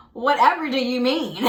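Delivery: theatrical feigned innocence; mock posh offense. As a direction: play the shocked aristocrat. Mock indignance at being called spoiled.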